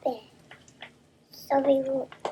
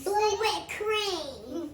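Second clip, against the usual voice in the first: laughing; much slower than usual. Real, not acted. Child laughing at blue cream.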